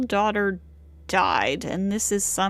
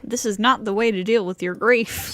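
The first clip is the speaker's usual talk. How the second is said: fast, louder urgent scolding; urgent rebuke; 4 dB louder, faster than usual. Acted. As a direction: snap it out fast and firm.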